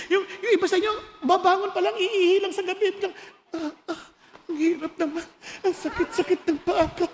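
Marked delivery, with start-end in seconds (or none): 3.5-7.1 lightly groaned complaint of sore feet; hint of comic achy grumbling; mock aches on waking. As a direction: groan a little, playing someone getting up in pain. Acts out someone waking in pain.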